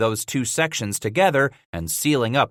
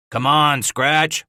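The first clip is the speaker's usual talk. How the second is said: yelling; 3 semitones higher, 4 dB louder, slower than usual. Acted. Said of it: "Walker was yelling".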